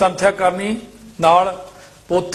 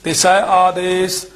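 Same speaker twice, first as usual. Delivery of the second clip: level, drawn-out chant-like reading; measured scripture recitation; slower than usual. Shown as a demonstration. Teacher reciting verses for students, measured chant-like recitation. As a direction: recite each phrase evenly with pauses.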